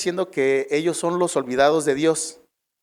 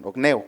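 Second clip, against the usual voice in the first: ogneo with the E stressed; 5 semitones lower than usual. Shown as a demonstration. Preacher correcting a Greek root, ogneo stressed on E. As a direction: put the accent on the E in ogneo. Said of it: "perdón, en la E".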